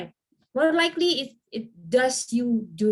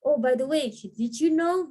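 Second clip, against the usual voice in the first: eager, higher-pitched lift on each new plug; over-excited; 3 semitones higher than usual. Acted. Club member monopolizing the talk with prospective members, mildly over-excited. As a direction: rattle off plugs like an over-eager club promoter. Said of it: "Sometimes we're so excited".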